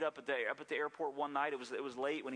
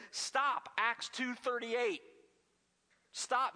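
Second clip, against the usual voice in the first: high, raised-voice yell of a startled homeowner; imitated yell; 8 semitones higher, 3 dB louder, much slower than usual. Elderly woman confronting a burglar in a retold story, yelling. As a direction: call it out high like yelling at an intruder. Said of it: "she yelled at him".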